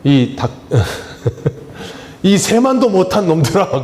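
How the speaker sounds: a rebuke that breaks into a laugh; half-laughing mock rebuke; God's rebuke cracked by laughter; laughing scold. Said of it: "하나님이 뭐라 그러신다 그랬어요".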